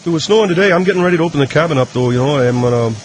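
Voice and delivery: lightly voiced Canadian hockey player; halting, dim-witted hockey player reading news; Moose McGoran. Hockey player fumbles through celebrity news, lightly voiced Canadian. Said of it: "trying to do a Canadian voice".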